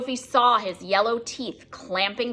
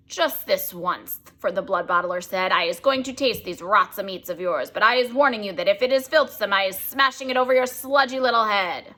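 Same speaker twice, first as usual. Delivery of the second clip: threatening giant. Acted. Bloodbottler threatens the BFG, menacing giant. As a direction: warn him with a menacing growl-free bluster.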